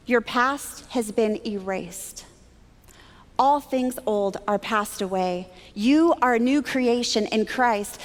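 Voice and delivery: slow, measured declaration; solemn pronouncement. Retold or imitated. Woman giving a stranger words of encouragement, slow and solemn. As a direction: deliver each phrase slowly and deliberately.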